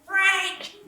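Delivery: loud, high-pitched yell of a name; high, forceful holler; insistent shout. Acted. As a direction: shout to get a friend's attention. Calling again to get attention.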